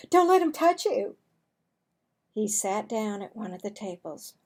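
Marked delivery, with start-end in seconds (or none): 0.1-1.2 high, loud teasing; mocking taunt. Amanda warns the others about Marvin, high loud taunt. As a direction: tease him in front of everyone.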